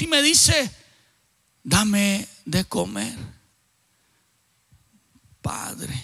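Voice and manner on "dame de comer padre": a low, slow demand that fades to a whisper on Padre; low, slow possessed man begging for food, whispering Padre; menacing possessed voice. Retold or imitated. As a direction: growl it low and slow, then breathe the last word.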